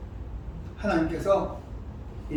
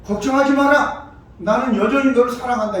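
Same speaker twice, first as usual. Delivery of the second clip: reassuring parent; 3 semitones higher than usual. Retold or imitated. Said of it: "기왕이면".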